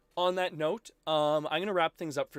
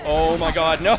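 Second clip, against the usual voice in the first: loud cry, breaking into laughter; amazed outburst; 2 semitones higher, 9 dB louder than usual. Real, not acted. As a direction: laugh in disbelief at a near miss. Dodges a punch in game.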